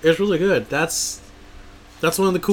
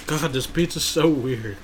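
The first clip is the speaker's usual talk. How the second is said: talking through a mouthful; slow words around a bite; mouth full; slower than usual. Real, not acted. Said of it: "you're still eating it".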